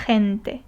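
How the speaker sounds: G in "Gente." as a raspy throaty H; G as flu H. Shown as a demonstration. Teacher showing learners a flu G, G in "Gente." as rough H. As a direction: say "Gente." opening on a rough, breathy H sound. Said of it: "kinda like a flu H or a flu G".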